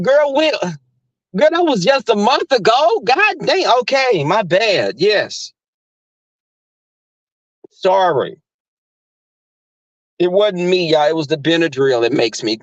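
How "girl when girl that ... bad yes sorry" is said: high excited self-quote. Retold or imitated. Answering her cousin on the phone, high and excited. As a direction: squeal it out high and defensive. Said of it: "I was like".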